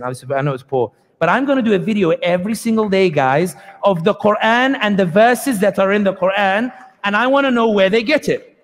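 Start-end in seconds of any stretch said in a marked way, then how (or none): 1.2-8.6 mock American accent. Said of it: "sorry for the accent".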